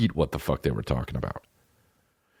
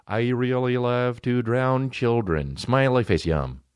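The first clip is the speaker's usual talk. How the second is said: mock robot voice; 2 semitones higher, slower than usual. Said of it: "they have a robot voice go".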